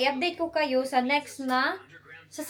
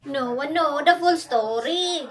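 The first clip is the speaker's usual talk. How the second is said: mock UK accent; slower than usual. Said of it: "some people talk like that here in U K".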